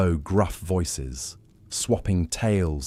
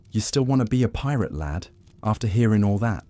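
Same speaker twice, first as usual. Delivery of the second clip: lightly voiced pirate, pitched up in question; old pirate challenge; 4 semitones higher than usual. Old pirate challenges youngest crewman, higher, lightly voiced. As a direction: put it to the lad, with a touch of sea dog.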